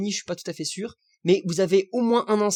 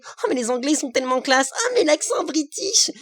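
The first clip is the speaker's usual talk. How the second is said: mock adoration; 7 semitones higher than usual. Vlogger parodying French admirers of the English, swooning mock voice. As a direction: ham up a fawning Anglophile. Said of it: "les gens adorent se dire que".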